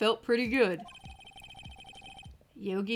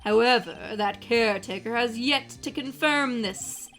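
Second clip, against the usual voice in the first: exaggerated villain voice. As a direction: ham it up like Robbie Rotten. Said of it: "over-exaggerated villain voice, Robbie Rotten, the intonations of Dracula".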